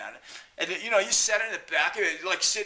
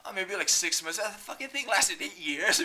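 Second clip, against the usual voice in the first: normal talking voice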